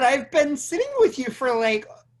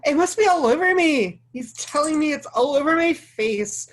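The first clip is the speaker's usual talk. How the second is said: higher, louder rising panic; 5 semitones higher, 6 dB louder than usual. Acted. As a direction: blurt it out in a rush of alarm. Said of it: "They're both in a panic".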